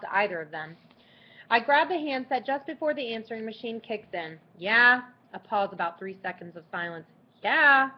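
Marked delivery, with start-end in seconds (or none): 4.6-5.0 a blunt, loud, bored "Yeah?"; curt phone answer. Acted. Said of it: "Is that how you answer the phone?". 7.4-7.9 loud, higher teasing echo of "Yeah?"; mocking imitation. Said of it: "Is that how you answer the phone?".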